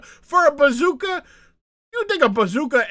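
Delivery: ranting about the wrestling angle, high disbelief; incredulous. Real, not acted. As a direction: scoff at the very idea. Incredulous rant.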